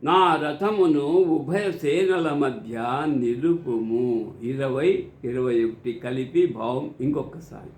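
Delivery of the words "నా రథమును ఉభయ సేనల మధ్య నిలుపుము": measured declamation with drawn-out phrase endings; scripture recitation. Acted. Narrating Arjuna's request to Krishna for Dhritarashtra, formal recitation. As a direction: recite it formally, stretching the calls and final words. Reads out verse meaning.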